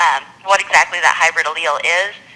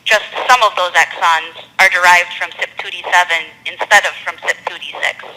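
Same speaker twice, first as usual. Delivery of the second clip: slower, deliberate, carefully spaced explanation; slowed down; 4 dB louder than usual. Real, not acted. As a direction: spell it out step by step for a listener who can't follow. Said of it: "they need you to slow down".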